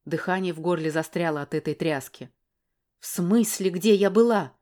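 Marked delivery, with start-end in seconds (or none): 3.0-4.5 loud, indignant yell; woman yelling back at the man. Acted. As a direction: shout it back at him. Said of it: "заорала в ответ".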